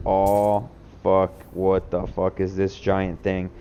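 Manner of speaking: retold shock. Retold shock at giant thing.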